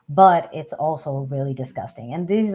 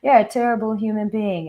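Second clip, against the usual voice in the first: mock yell; 7 semitones higher than usual. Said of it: "yelling at you and being like".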